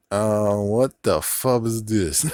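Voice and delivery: slow, drawn-out shouted disbelief; exasperated outburst. Real, not acted. Reacting to the TVA expecting Loki to stand still, slow exasperated shout. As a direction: yell at the absurd plot.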